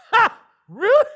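loud, high disbelieving "Really?"; incredulous. Real, not acted. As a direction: throw it back at them in disbelief. Mocking Sarah's plan.

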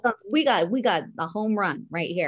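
hyped ghost hunter voice; Zach Bagans. Retold or imitated. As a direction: play an excited ghost hunter. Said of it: "I felt like Zach Bagans".

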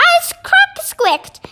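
very high, drawn-out yowl; giant's yowl. A narrator's reading. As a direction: yowl it slowly, right at the top of your pitch. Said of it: "yowled the blood bolt hurler".

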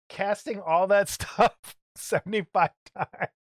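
slow, laughing disbelief. Real, not acted. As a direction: laugh through the words. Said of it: "Sorry, I'm laughing".

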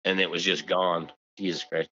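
trembling, shaken voice; shaky voice. Real, not acted. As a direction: voice shaking with real fear. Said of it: "Sorry, my voice is shaking".

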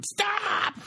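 high mock yell from afar; yelling from another room. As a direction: call out from down the hall. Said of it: "my sister would just yell from the other room".

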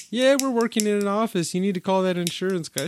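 lightly mocking a wooden porn actor. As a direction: parody a stiff porn actor's line. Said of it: "overacting in porn".

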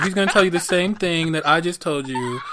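loud, high, mock-furious telling off; mock angry clerk. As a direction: tell her off, hammed-up and fierce. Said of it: "what would you have said?".

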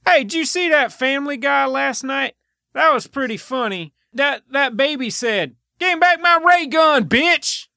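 high-pitched impression of a chatty stranger; overheard stranger. Retelling overheard talk about Family Guy, high-pitched imitation. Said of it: "overheard somebody talking about it".

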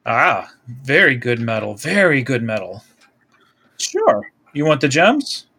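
a light stage brogue for the smith; a touch of mock Irish; mild Irish accent. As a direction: keep the smith in a faint Irish lilt. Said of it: "I'm not doing the accent anymore".

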